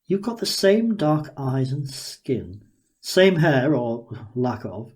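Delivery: a hint of a gleeful, curious inventor sizing her up; Daniel, eager scientist. Daniel marvelling at the girl before him, lightly voiced and eager.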